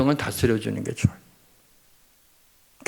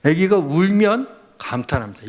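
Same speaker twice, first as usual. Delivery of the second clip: ordinary talk, nothing marked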